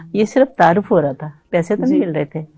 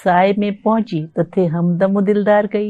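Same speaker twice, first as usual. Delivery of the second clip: ghazal recitation; 4 dB louder than usual. Acted. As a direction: recite it like at a mushaira.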